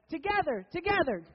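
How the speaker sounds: high-pitched joke yell; hammed-up yelp for a punchline; mock screaming. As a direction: cry it out like a hapless sheep. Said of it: "more effective if we scream together".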